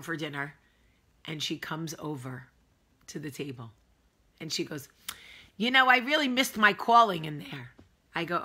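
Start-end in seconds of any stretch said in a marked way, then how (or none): 5.6-7.7 put-on loud, higher Northern woman's accent. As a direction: imitate a chatty Northern lady. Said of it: "I like to do a northern accent".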